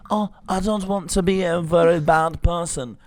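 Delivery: a hint of a meek film outcast; hesitant mock plea to a bully; lightly voiced Edward Scissorhands. Co-host acting the film's hero to the bully, mock timid. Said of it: "Edward Scissorhands is like".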